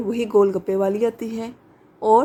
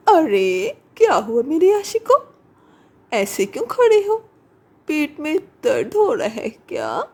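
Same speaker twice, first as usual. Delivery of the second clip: higher, mocking sweetness; teasing witch voice; 4 semitones higher than usual. Witch mocking her sick admirers, higher and teasing. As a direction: tease the sick men.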